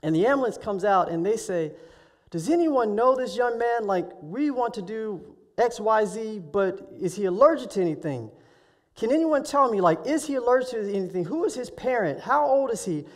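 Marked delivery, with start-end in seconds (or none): 2.3-13.1 urgent questioning. Retold or imitated. Paramedic asking bystanders about an injured student, urgent. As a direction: fire off concerned questions to a crowd, raised pitch.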